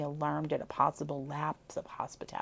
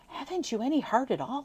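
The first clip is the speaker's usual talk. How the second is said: rough demand; 8 semitones higher, 4 dB louder than usual. A narrator's reading. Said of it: "he demanded roughly".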